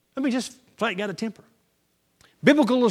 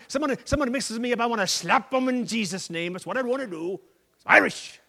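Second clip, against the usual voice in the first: louder blustering excuse; louder indignant bluster; hot-tempered excuse-maker; 3 semitones higher, 6 dB louder than usual. Acted. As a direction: bluster like a man excusing himself.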